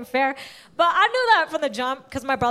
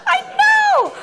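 mock outrage; 3 dB louder than usual.

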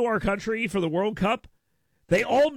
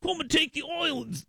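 mock Cockney; 6 semitones higher than usual. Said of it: "They're all Cockney".

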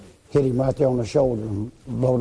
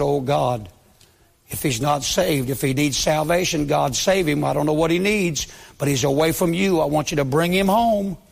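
pleading prayer. Retold or imitated. Pastor praying on the floor for his friend, pleading and building. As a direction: beg God to bring him home, building.

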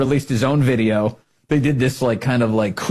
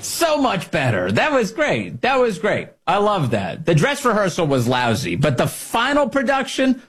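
delighted praise; 6 semitones higher, slower than usual. Real, not acted.

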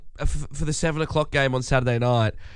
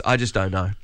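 weary mascot; 4 semitones higher, slower than usual. Retold or imitated. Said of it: "And he goes".

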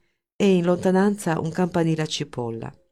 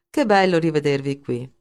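sarcastic. Acted. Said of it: "La sua voce trasudava sarcasmo".

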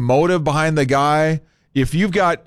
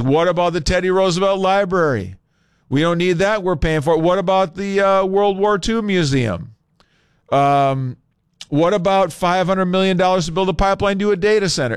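mocking complainer; 6 semitones higher than usual. Mimicking listener complaints by text.

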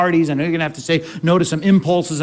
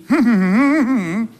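laugh; 5 semitones higher than usual. Real, not acted. Preacher laughs mid-quote.

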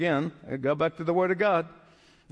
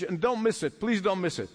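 ordinary talk

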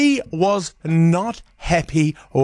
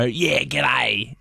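mock true-blue Aussie greeting, slightly low; a touch of broad Aussie accent; 4 semitones lower, slower than usual. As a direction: lightly put on an Australian drawl. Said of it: "true blue Aussie as they come".

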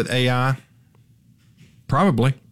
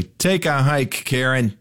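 mock brush-off; 3 semitones higher, slower than usual. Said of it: "and I say".

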